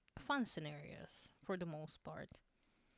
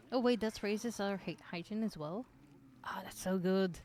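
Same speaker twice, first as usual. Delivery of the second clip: excited; 2 semitones higher, 6 dB louder than usual. Real, not acted. Thrilled by a hygiene boost.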